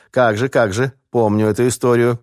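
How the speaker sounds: light up at the memory; delighted recognition. A narrator's reading. Docent remembers the incident with the valve, delighted. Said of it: "так и просиял".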